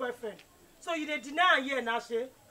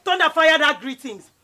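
angry curse; 6 dB louder than usual. Acted. Cursing off the greeting.

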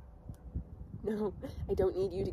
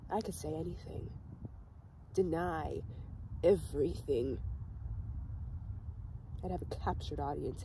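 subdued hurt; 2 semitones lower, 5 dB quieter than usual. Acted. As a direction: confide the grievance quietly. Caller's bitter complaint about being ignored.

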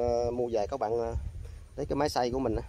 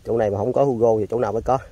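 excited; 8 dB louder than usual. Real, not acted. Excited about the Hugo fish.

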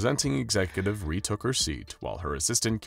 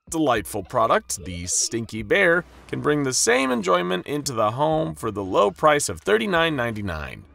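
pinched-nose salesy voice, higher; nose held; 11 semitones higher, 7 dB louder than usual. A narrator's reading. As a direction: pitch it while holding the nose. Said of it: "holding her nose shut".

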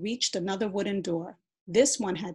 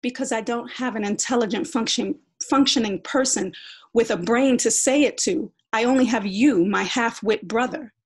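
loud, higher, scornful retort; angry insult; 4 semitones higher, 7 dB louder than usual. Acted. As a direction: cut her brother down. Sister insults brother.

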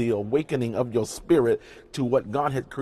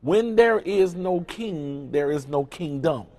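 slow, high, weighty first half, then settling down; preacher stressing the key line; emphasized slowly; 3 semitones higher, slower than usual. Shown as a demonstration. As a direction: lay each word down like a verdict. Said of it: "I wanna emphasize this to you".

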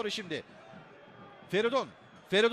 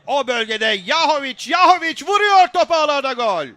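building from tense to loud, high goal scream; screaming football commentator; 3 semitones higher, 8 dB louder than usual. Real, not acted. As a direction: rise from tense play-by-play into a full goal scream. (gerilimden gol çığlığına yükselen spiker)

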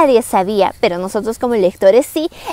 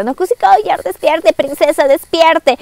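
higher-pitched mock urgency; llamada urgente actuada; 4 semitones higher than usual. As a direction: play a nanny rousing a sleeping princess. Nana despierta a la princesa. (voz aguda que intenta despertar a alguien)

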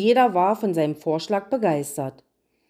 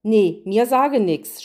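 slow, louder refusal through a mouthful; munching while talking; 4 dB louder, slower than usual. Acted. Gretel refuses the queen with her mouth full, chewing. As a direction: say it chewing chocolate. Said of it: "schmatzte Gretel".

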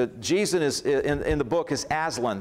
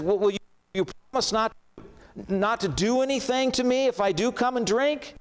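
high, rushed and nervous pleading; anxious girl; 6 semitones higher than usual. A narrator's reading. Jill begging the lion for a promise, high and fast. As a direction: blurt it out fast, scared of the answer. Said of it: "She says".

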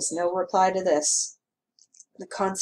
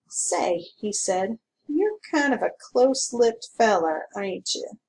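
sour; 3 semitones higher, 4 dB louder than usual. Acted. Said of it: "His sour mood returned".

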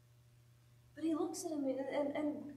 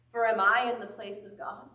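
louder, pressing repeat of the question; emphatic repeat; 3 semitones lower, 6 dB louder than usual. Shown as a demonstration. Preacher repeating Joseph's question to the congregation, louder. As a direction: drive the question home harder.

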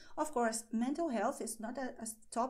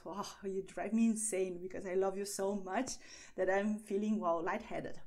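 acted giddy infatuation, slightly lower; lovestruck; 3 semitones lower than usual. Shown as a demonstration. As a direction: gush lightly, as if dizzy with love. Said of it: "head over heels in love".

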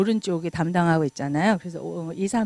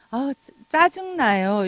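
mildly refined annoyance; 4 semitones higher, slower than usual. Retold or imitated. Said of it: "이렇게 조금 고상하게 표현해요".

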